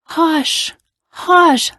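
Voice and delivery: high-pitched, drawn hush; mama hushing. A narrator's reading. Mama shushes crying girl in story.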